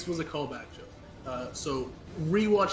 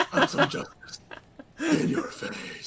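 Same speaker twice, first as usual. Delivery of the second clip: high, slow, airy joke voice; lightly voiced silly hero; mock hero line; 10 semitones higher, slower than usual. Mock Batman line, laughing.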